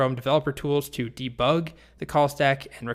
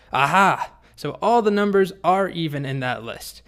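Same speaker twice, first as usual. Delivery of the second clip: loud "Aha!", then higher, gleeful deduction; triumphant; 4 semitones higher, 5 dB louder than usual. Retold or imitated. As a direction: play a boy who has caught someone out. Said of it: "Martin triumphantly says".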